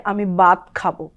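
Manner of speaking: ভাত said as বাত, no breath; unaspirated বাত for ভাত; wrong bat. Shown as a demonstration. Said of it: "তখন শুনতে পারা যাবে". (ভুল উচ্চারণ বাত)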